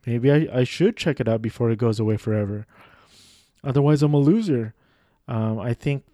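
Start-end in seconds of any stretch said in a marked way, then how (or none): 0.1-4.7 self-mocking schmuck. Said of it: "I'm a schmuck that goes".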